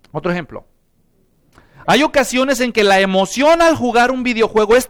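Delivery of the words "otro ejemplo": repeated lower and softer, Otro ejemplo drops away; quiet. Shown as a demonstration. (repetición baja y suave)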